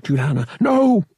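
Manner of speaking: loud, high cry to hold her back; urgent shout. Acted. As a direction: stop her before she strikes. Han stops his friend.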